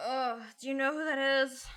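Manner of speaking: soft, nervous hushed question; hushed worried voice. Pretend.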